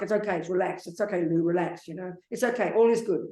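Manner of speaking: gently soothing yourself, "It's okay, Lou"; calm yourself down like a friend would; reassuring self-talk. Shown as a demonstration. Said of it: "You sort of talk to yourself".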